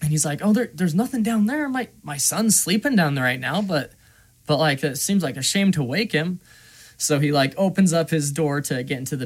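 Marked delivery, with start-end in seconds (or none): 0.4-6.4 lightly voiced gunsmith, starting high; a hint of imitated evasive excuse; making excuses. Gunsmith to customer asking about the basement, mildly evasive.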